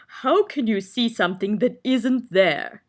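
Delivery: slow, sleepy yawned question; yawning. A narrator's reading. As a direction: ask through a yawn. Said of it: "yawned the humbug".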